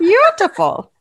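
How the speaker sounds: high, loud alien creature voice; Star Wars voice. Shown as a demonstration. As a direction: coo it like a strange alien. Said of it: "my Star Wars voice".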